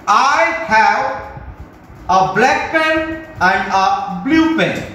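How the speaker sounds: slow, deliberate dictation of the sentence. Shown as a demonstration. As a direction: spell it out word by word for students. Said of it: "ध्यान से सुनना". (धीमे-धीमे बोलकर लिखवाना)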